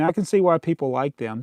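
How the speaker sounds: ordinary delivery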